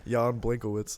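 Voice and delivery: "Jan Blankowitz" with BLANK in the surname; habitual mispronunciation. Shown as a demonstration. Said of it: "That's what I always say".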